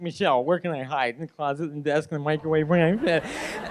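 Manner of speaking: imitating a trapped friend's panic; mock-frantic hunt for a hiding place; freaking out. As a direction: blurt it out in comic panic. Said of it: "freaking out 'cause he's trapped".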